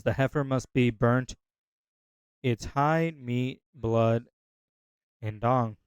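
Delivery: reading through burps; holding back burps; burping. Real, not acted. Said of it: "excuse me, I'm burping a lot".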